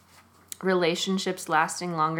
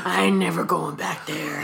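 light southern twang, voicing a defiant character; southern drawl as a character; 2 semitones lower than usual. Podcast host voicing a friend's anatomy, mild southern accent. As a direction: play the part with a touch of southern accent. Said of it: "I was talking as your dick".

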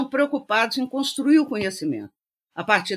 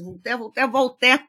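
frantic; 2 semitones higher than usual. Retold or imitated. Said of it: "O Conde Resende enlouquece".

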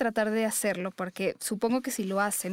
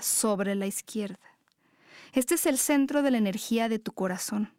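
guided meditation. Acted. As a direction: guide them gently into their breath.

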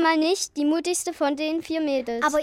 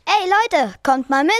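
laut, höher rufend; lauter Aufruf; 3 semitones higher, 5 dB louder than usual. Acted. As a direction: ruft die anderen herbei. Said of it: "forderte er Pupsi mit den Löwen auf". (Eisenmann ruft die Freunde laut herbei)

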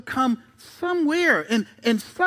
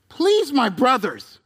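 pleading Lot; slower than usual. Retold or imitated.

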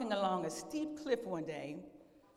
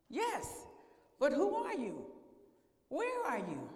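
Jack; 5 semitones higher, slower than usual. Acted. Jack questions the unseen voice.

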